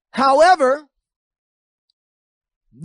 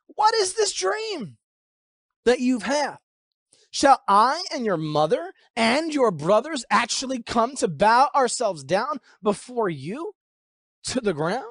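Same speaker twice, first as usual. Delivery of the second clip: rebuking father; 2 semitones higher than usual. Acted. Father rebukes his son over the dream, lightly acted reproach. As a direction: question him in drawn-out, incredulous phrases. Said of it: "his father rebuked him".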